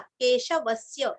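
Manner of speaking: केशवस्य with the weight on व; व पर आघात; stress on व. Shown as a demonstration. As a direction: lean into the व of केशवस्य. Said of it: "व के ऊपर आघात".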